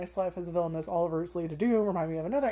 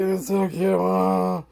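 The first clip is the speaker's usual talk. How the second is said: louder squeal of delight; gushing; 7 dB louder, much slower than usual. Retold or imitated. Reacting to the cute scene, gushing. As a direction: gush over something adorable. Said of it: "And it's like".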